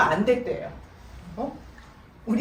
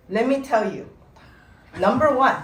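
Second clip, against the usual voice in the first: louder, laughing mock announcement; a daughter presenting charges, half laughing; mock formal daughter; 2 semitones higher, 6 dB louder, much slower than usual. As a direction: read the list like a prosecutor. Daughter reading her complaint list.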